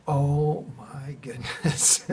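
very slow laughing wonder; amused disbelief. Retold or imitated. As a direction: let a laugh leak through the awe. Seeing tree on lines.

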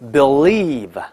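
believe as bel-LIEVE, dark L then clear L; slow believe, lingering on the L; American double L. Shown as a demonstration. Teacher reads 相信 for learners, double L. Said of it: "它要发出两个的哈".

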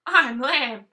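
a bold little lamb. Acted. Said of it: "said the woolly-faced creature".

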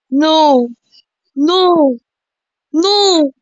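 long, high cries of refusal; wailed protest. Real, not acted. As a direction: wail it, rising step by step. Repeated protest at game events.

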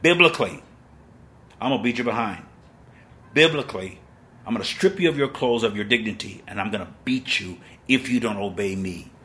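a hint of a threatening plantation owner; imitating the slave owner. The plantation owner threatening the slaves, lightly voiced. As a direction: threaten like the master from the film. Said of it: "which he was saying".

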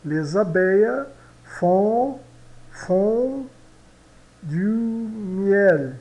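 "Les abeilles font du miel" com ligação e T mudo; liaison, silent T. Shown as a demonstration. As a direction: ligue "Les abeilles" e cale o T. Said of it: "esse T aqui é mudo". (professora demonstra a ligação em voz alta)

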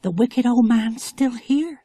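high, slow, wide-eyed dread; frightened. Acted. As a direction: breathe it out as if he might hear. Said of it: "Tassie's eyes grew big with fright".

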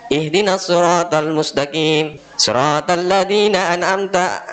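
slow, measured Quran recitation. Shown as a demonstration. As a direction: recite slowly, drawing out each word. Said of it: "Ada kiau". (bacaan Al-Quran pelan dan tertata)

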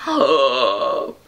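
low, breath-filled "oh"; surprised gasp. Real, not acted. Vlogger opening a folding brush, surprised gasp. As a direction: gasp as the gadget surprises you.

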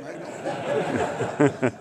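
loud, laughing reply. Real, not acted. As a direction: giggle it out sheepishly. Sheepish reply, teller laughing.

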